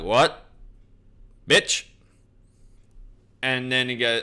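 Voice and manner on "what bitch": sudden high, loud outraged yelp; a startled dragon snapping at the kissing couple; indignant what. Retold or imitated.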